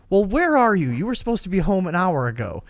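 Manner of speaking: retold parental telling-off; scolding mom. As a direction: imitate a mom demanding answers. Voices mother scolding her son.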